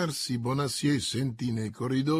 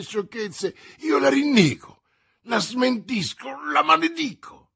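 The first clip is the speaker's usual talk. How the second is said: high, loud, climbing to a cry; frantic protest; 7 semitones higher, 7 dB louder than usual. A narrator's reading. Prisoner disowning his wife to the commissioner, frantic. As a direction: build from pleading to a shrieked curse.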